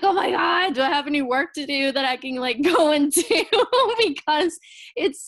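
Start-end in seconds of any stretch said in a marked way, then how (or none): 0.0-3.2 half-laughing, acting out desperation for an excuse; retold desperation. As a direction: play up wanting an escape. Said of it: "sometimes I'm like".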